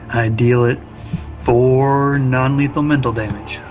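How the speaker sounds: usual speaking voice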